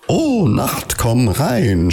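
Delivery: high-pitched call, far too loud; overly loud, high welcome; too loud shout. A narrator's reading. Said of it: "schrie Alice viel zu laut".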